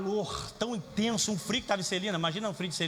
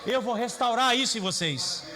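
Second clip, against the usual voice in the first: raised, proclaiming shout; preacher booming God's words; God's voice, proclaimed. Acted. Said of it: "ele tá falando assim".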